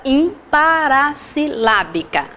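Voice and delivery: "imparassilábica" broken into slow, separate chunks; measured, segmented delivery of "imparassilábica"; syllable by syllable. Shown as a demonstration. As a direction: spell out "imparassilábica" by syllables for the class. Teacher sounds out the new term.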